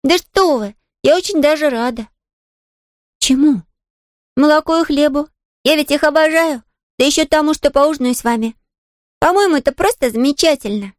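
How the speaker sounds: put-on a young girl brushing off the maid's worry; little girl Pollyanna. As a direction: play the eager little girl, light and quick to reassure. Pollyanna voiced.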